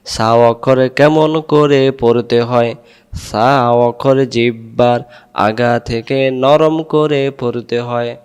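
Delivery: slow, measured drilling chant; teacher's drawn-out rote recitation; memorization recitation. Shown as a demonstration. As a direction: recite it evenly, syllable by syllable. Drills question and answer.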